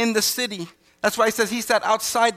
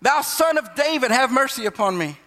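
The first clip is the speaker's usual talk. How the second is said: higher mild cry for mercy, not shouted; retold crying out; 3 semitones higher than usual. Preacher voices blind beggar calling to Jesus, mild retold cry. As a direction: imitate calling out, pitched up at the start then easing. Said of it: "it says he cried out".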